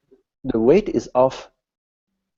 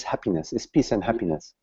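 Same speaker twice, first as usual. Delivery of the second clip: whispered; 2 semitones lower, 7 dB quieter, faster than usual. Real, not acted. Teacher stating true nature.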